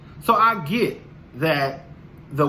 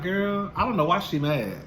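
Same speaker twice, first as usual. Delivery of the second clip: laughing. Retold or imitated. Laughing quote.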